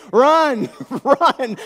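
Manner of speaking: high, loud screamed command; full-voiced yell; God screaming. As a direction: scream it as an urgent warning. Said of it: "God scream at me so loud".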